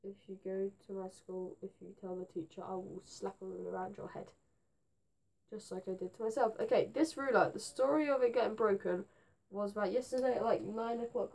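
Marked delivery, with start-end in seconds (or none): 0.0-6.6 mock threat. Fake threatening ruler warning.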